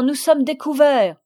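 appel fort vers le bois; crié. Acted. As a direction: lance l'alerte à pleine voix. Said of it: "il cria". (le père crie l'alerte au Normand, à pleine voix)

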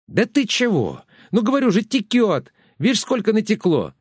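high, shrill village woman; тётка-крикунья. A narrator's reading. Тётка спорит о протечке. (визгливая деревенская тётка)

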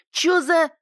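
high yell breaking off; cut off mid word. A narrator's reading. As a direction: stop dead mid word. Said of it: "замолчал на полуслове".

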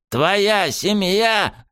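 slow, gurgling, strangled cry; choking gurgle. Acted. Sniffer half-strangled in the hero's grip, slow gurgling cry. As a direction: force it out through a crushed throat. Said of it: "забулькал начавший задыхаться Нюхач".

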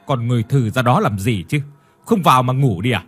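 husband yelling at his dazed wife to come sleep; barking at her. Acted. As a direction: order his wife to bed harshly. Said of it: "quay lại nhìn bà Hai mà quát".

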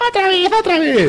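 high, slow squealing Teletubby. Retold or imitated. The Teletubby begs the camera to play again. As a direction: whine it like a baby creature begging. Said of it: "mi Teletubby mira a cama y dice".

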